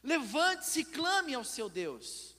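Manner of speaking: high, loud, alarmed command; acted captain's urgent cry; desperate shouting. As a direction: shout to rouse a sleeper in desperation. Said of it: "imagine alguém gritando, desesperado".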